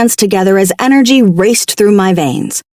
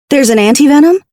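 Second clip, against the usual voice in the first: rasping; 6 semitones higher, faster than usual. Acted. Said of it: "I rasped".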